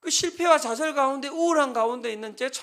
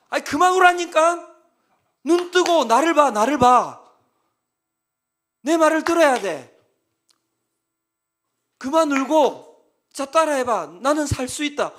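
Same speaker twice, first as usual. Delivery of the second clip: shouting at him; 3 semitones higher, 9 dB louder than usual. Retold or imitated. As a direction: shout him out of his crying like a stern pastor. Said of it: "계속 소리 질러야 돼요".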